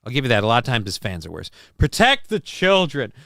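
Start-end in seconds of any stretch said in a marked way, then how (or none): 1.8-3.1 slow, strained character voice; horrible put-on voice. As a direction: drag it out in a silly, strained voice. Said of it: "That's a horrible one".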